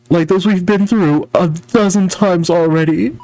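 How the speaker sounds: exasperated hero voice. Acted. Hero voice in game dialogue.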